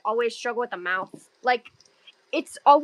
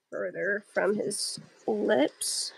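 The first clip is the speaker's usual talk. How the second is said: whispering; 3 semitones lower, 7 dB quieter, much slower than usual. Real, not acted. Muttered while drawing.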